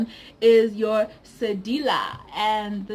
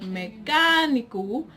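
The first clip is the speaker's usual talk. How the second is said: "mecânico" with a drawn-out, stressed "câ"; stress on second syllable; 3 semitones higher, slower than usual. Shown as a demonstration. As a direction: lean on the "câ" in "mecânico". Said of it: "you place your stress on the".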